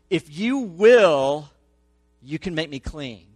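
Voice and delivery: slow, loud, drawn-out plea; pleading leper. Retold or imitated. Leper kneeling before Jesus, slow loud pleading. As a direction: beg Jesus slowly, every word stretched.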